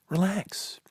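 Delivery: soft breathy whisper, rising at the end; whispered relax. Retold or imitated. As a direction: hush him gently like a worried partner. Jill calming him in car.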